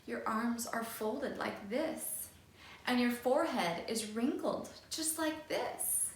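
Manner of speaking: put-on calm the upset child; soothing. Teacher soothing the angry boy, softly. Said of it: "says in a soothing voice".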